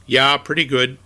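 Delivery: put-on a light Minnesota accent on the reply; mimicked Minnesota reply. The speaker answering his father-in-law in a light Minnesota accent.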